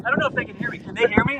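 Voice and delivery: distant, roomy sound; from another room. Real, not acted. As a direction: voice from the next room. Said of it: "you sound like you're in the next room".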